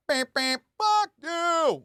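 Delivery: car horn road rage, mimicked; mock driver yell. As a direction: ham up a honking New Yorker. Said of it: "when you hear the, the horns".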